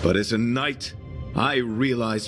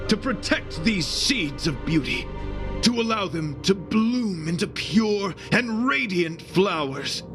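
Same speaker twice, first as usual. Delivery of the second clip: raised pitch, fervent knightly oath; impassioned vow; 5 semitones higher than usual. Acted. Knight swearing to protect the seeds of beauty, impassioned vow. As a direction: swear it high and ardently, like a knight.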